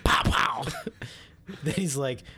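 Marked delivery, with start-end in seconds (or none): 0.0-0.6 loud, punchy gunshot noises; imitated gunshots. Retelling Tony shooting Boris, imitated gunshots. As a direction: fire off two vocal gunshots.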